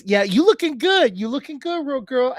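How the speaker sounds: high, put-on gay-voice flattery. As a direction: hype her up in a high gay voice. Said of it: "if you do a gay voice".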